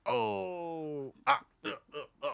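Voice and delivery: put-on botched Irish accent full of grunts; Irish drinker reduced to noises; bad Irishman. The speaker auditioning as Bad Irishman, botched Irish accent and grunts. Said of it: "Bad Irishman".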